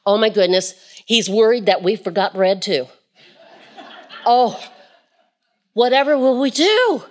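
fretting disciples voiced through a laugh; mock alarm broken by laughter; laughing mock panic. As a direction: laugh while playing the flustered disciples. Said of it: "And they're going".

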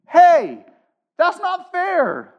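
high whiny protest; nasal whine. Retold or imitated. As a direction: whine it like a sulky kid. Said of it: "I could see it in your faces".

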